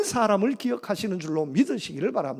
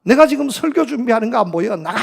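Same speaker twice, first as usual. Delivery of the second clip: angry shout; 3 semitones higher, 7 dB louder than usual. Retold or imitated. Pastor dad interrupted in sermon prep, shouting angrily at son. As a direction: yell like a father losing his temper. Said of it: "화가 나서 소리쳤습니다".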